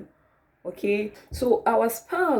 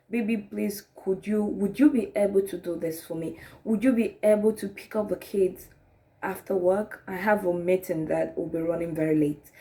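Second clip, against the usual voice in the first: humble request. Acted. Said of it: "you're just asking humbly".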